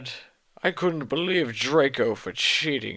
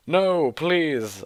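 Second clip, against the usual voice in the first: mild mock begging; 5 semitones higher, 3 dB louder than usual. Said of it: "I begged".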